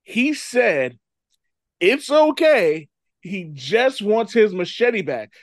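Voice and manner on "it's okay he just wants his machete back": louder, slow, drawn-out mock quote; exasperated mock quote. Retelling a movie victim's fatal words, exasperated mock quote. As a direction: quote it slowly in disbelief.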